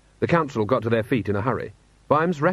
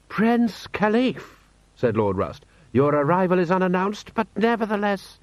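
haughty lord; 9 semitones higher than usual. Acted. Lord Rust formally receives an unexpected prince, haughty. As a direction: stretch the name out high, like a grand official.

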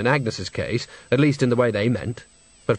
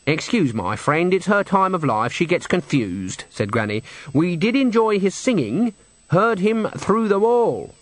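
slow, raised, genteel apology; politely smoothing Granny; 6 semitones higher than usual. Acted. Granny excuses her friend to the men, politely smoothing. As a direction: make excuses with drawn-out sweetness.

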